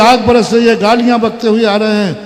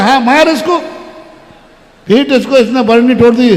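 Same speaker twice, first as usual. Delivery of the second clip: egging on; 3 semitones higher than usual. Acted. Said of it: "यही है वो सास जो".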